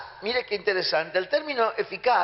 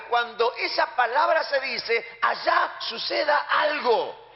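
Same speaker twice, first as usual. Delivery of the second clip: rising to a higher, slow shouted climax; preaching shout; 4 semitones higher than usual. Real, not acted. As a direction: proclaim it with full force. (predicador gritando con fuerza)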